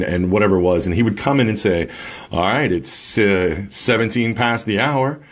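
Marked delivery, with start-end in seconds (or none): 2.3-5.2 a hint of a stuffy morning-show host reading the clock; mild mock DJ patter, stumbling over minutes past the hour; imitating old radio DJ. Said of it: "Like, who talks like that?".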